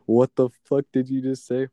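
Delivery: hammed-up outraged manager; mock angry boss. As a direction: play the offended owner, sharp and loud. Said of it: "she's like".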